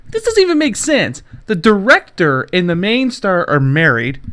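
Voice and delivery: high, loud disbelief; can't believe it, pitch shooting up; incredulous. Real, not acted. Host reacting to movie gossip, loud incredulous. Incredulous rant about news.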